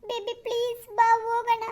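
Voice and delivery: acted weeping complaint; tearful. Girlfriend accusing Arun of missing another woman, crying. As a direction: sob out the jealous accusation. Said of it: "ನೀನು ಅಳ್ಬೇಡ ನೀನು".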